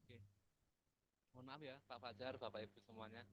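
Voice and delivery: faint voice, far from the microphone; far from mic. Real, not acted. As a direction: speak from across the room. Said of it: "Mungkin dekatkan mikrofonnya".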